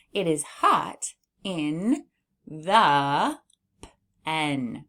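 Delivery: It is hot In read slowly word by word; slow guided read. Shown as a demonstration. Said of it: "let's read our sentence".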